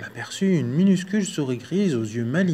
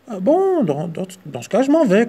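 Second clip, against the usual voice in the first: higher flustered squeak; stammering mouse; 6 semitones higher, 5 dB louder than usual. Acted. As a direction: fluster out the exit. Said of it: "conclut la souris".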